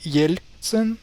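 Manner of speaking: "Yeltsin" the Russian way, YEL-tsin; correct "Ye" sound. Shown as a demonstration. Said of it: "it's actually Y".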